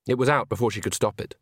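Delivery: ordinary delivery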